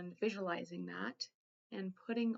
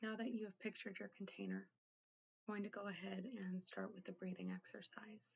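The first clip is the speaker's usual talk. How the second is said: guided meditation. Acted. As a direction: gently guide the listener inward, leaving room to think. Leads a guided containment exercise.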